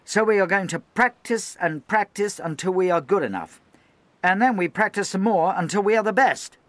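high, loud stern speech; rally and warn the men at once; loud harangue. Acted. Lieutenant addressing the gun crews, high loud harangue.

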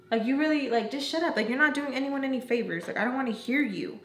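mildly heated mock telling-off; exasperated retort. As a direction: act out cutting someone off, fed up. Retold angry retort to friend.

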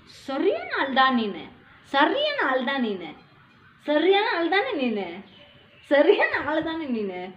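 slow, swooping sing-song tease. Real, not acted. Mother teasing her baby as a real character, sing-song.

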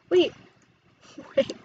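whisper. Real, not acted. Laughing aside to herself.

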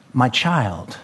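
low, softened term of endearment; affectionate. Acted. God calls us his child, affectionate. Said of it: "a word of affection".

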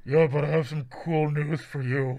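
lightly voiced ghostly villain; a hint of a put-on character voice; Kylo Ren. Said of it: "I'm going to be Kylo Ren".

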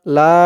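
লা with a long, steady held aa; prolonged three-alif madd. Shown as a demonstration. Teacher shows where to stretch, prolonged লা. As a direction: draw the vowel of লা out very long. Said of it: "তিন আলিফ টান দিতে হবে".

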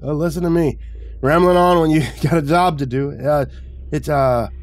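high, breezy character voice; cheerful retiree. A narrator's reading. Retiree finishes rambling and gives meter reading, cheerfully. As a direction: brighten up and draw out the reading. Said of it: "the retiree finished cheerfully".

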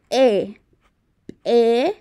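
E held long after a small burst; isolated, drawn-out E; pronunciation demo. Shown as a demonstration. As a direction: model E slowly for learners. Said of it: "Así se pronuncia la".

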